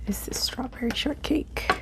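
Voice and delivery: soft unvoiced ASMR whisper. Real, not acted. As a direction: breathe the words, no voice. ASMR whisper about the food.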